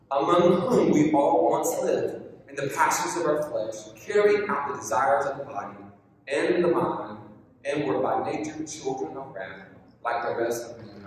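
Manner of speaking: measured reading of a Bible passage; scripture reading. Acted. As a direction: read the verses steadily to the congregation. Reads scripture passage aloud.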